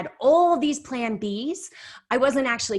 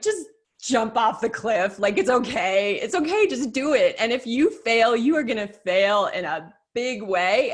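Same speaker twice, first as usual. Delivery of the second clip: strong inner voice; 3 semitones higher, 5 dB louder than usual. Retold or imitated. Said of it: "really strong voice now in the back of my head".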